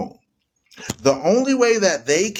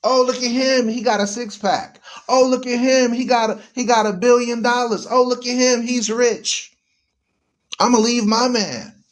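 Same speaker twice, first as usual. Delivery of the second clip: swooning woman; 6 semitones higher than usual. Retold or imitated. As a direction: gush like a starstruck woman. Woman swooning over rich man.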